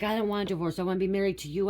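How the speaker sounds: mock husband's plea; retold protest. Retells husband protesting the divorce.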